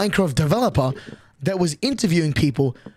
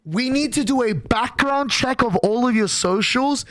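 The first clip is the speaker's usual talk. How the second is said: developer's voice; 6 semitones higher, slower than usual. Retold or imitated. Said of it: "the developer says".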